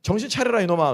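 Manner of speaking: imitated stern telling-off, lifted in pitch; scolding God. Preacher voices God answering the man praying about a woman, scolding. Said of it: "하나님께서 뭐라고 말했습니까".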